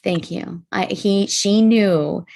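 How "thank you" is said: hushed, softly retold thank-you; silent thanks. Daughter-in-law thanking Mom for the pie, silent thanks. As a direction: say it softly, as if inwardly. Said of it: "I just silently was like".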